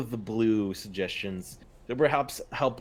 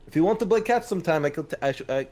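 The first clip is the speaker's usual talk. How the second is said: a touch louder and fast, keen to play; eager quick offer; 4 semitones higher, 3 dB louder, faster than usual. Acted. Dorian bowing to Telva, eagerly offering to teach catch. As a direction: rush the friendly offer. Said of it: "he bows his head to Telva".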